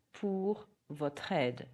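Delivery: slow, careful French model; slow teacher demonstration; slow model phrase. Shown as a demonstration. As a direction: say it slowly for learners to copy. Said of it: "repeat after me".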